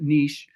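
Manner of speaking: niche said as "neesh"; niche rhyming with leash; alternate pronunciation. Shown as a demonstration. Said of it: "some people pronounce it niche".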